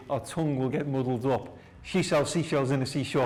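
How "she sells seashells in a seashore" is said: quickly. Shown as a demonstration. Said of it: "if we try to say quickly".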